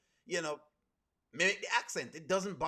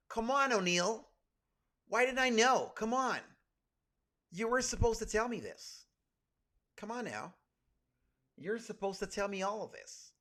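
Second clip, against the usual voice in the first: pleading put-on white American voice, higher; 4 semitones higher than usual. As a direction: do a mock white American accent, gently reproachful. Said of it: "I put on my white voice".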